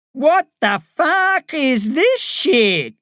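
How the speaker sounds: a lightly voiced hostile prisoner; barking. A narrator's reading. Red-haired inmate barks at the visiting boy. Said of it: "barks a red-haired woman".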